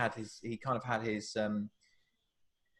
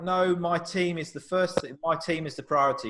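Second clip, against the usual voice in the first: imitating the manager; 5 semitones higher, 4 dB louder than usual. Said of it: "Cookie was very kind of like".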